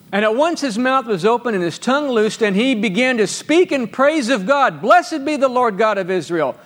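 measured pulpit reading voice; scripture reading. Acted. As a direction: read the verses out to the church with lift. Reads Zacharias's praise.

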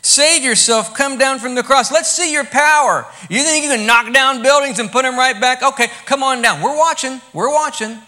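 loud, high jeering dare; mocking taunt. Crowd daring Jesus to come down, loud mocking taunt. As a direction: goad him to prove his power. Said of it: "so they're mocking Jesus".

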